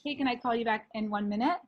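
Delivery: quick hurried phone brush-off; rushing someone off the phone, laughing; dodging a caller. Real, not acted. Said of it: "I'm just gonna tell her I'm gonna call her back".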